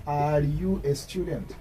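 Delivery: drawn-out question with falling end; slow model question. Shown as a demonstration. Teacher showing learners how to ask, slow.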